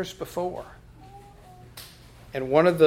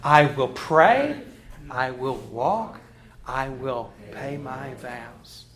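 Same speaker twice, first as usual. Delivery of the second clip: congregational recitation; 3 semitones lower, slower than usual. Shown as a demonstration. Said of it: "Let's say it together".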